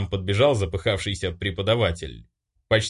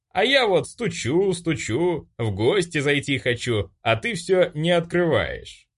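higher singsong taunting; bully taunts hero through the gate; mocking taunt; 8 semitones higher than usual. A narrator's reading. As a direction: tease him like a clown. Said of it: "довольно заржали".

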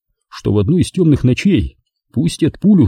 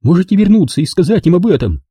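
higher, a touch of challenge; defiant; 8 semitones higher than usual. A narrator's reading. Girl taunting Bolan to go back, mildly defiant. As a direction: dare him to report it. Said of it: "сказала она с вызовом".

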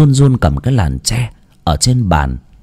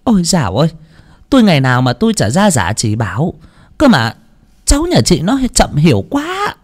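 tutting; 5 semitones higher than usual. Acted. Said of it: "chép miệng".

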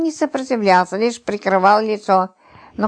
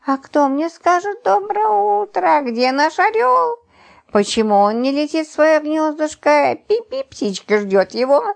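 flirtatious cooing; 6 semitones higher than usual.

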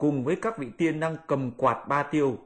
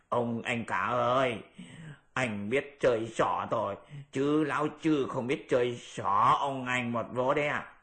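Pigsy teasing. Acted. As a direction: savour the prank on big brother. Pigsy taunts Monkey.

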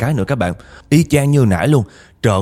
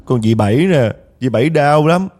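high, pleading ghostly lament, much higher; crying spirit; 6 semitones higher than usual. Retold or imitated. Aunt Bảy's spirit pleading to relatives, high and tearful. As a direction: wail as a trapped suffering spirit. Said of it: "dì Bảy còn khóc á".

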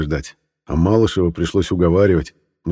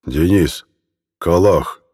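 bear voice; much slower than usual. A narrator's reading. Bear urging people onward.

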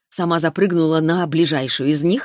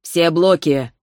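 commanding; 4 dB louder, slower than usual. Acted. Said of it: "приказал Арис Лифтерио".

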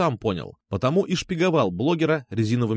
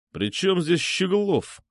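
frowning question; 7 semitones higher, slower than usual. Acted. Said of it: "нахмурился Петя".

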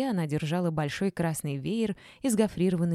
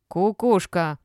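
loud insult, less shrieky; accusing jeer; 7 dB louder, much slower than usual. A narrator's reading. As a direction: hurl it loudly without much pitch rise. Old woman repeats insult in row.

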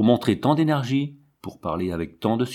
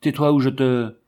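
a louder, higher Tais-toi cut off mid-threat; shout; 4 semitones higher, 5 dB louder than usual. A narrator's reading. Jean raising his hand at Zézette, louder shouted Tais-toi. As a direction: snap Tais-toi as a raised threat that breaks off. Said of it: "hurla Jean Tabary".

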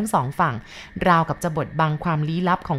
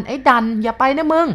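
loud warning shout; 7 semitones higher, 5 dB louder than usual. A narrator's reading. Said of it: "ก็ร้องลั่น". (ตะโกนเตือนเสียงดังลั่น)

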